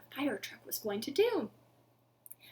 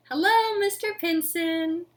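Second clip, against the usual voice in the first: cheery hello; 5 semitones higher, 8 dB louder than usual. Acted. Lion cheerfully greets zookeeper.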